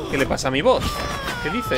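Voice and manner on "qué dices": surprised shout. Real, not acted. Reacting to a teammate's joke.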